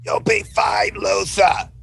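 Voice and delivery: high-pitched character shout; calling out in character. Acted. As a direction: call it out high to a panicking friend. Ethel calls out to panicking Luther.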